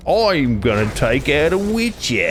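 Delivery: drawn-out mocking swagger; mocking cocky attacker. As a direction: imitate a foolish would-be witcher killer. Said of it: "And you're like".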